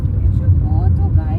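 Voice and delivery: put-on high, slow sing-song to a child; baby-talk voice. Mother showing cows to the toddler in baby talk. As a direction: stretch it out for the toddler.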